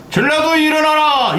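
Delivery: high ringing call to rise up; a rallying cry to the people. Retold or imitated. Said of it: "이럴 때".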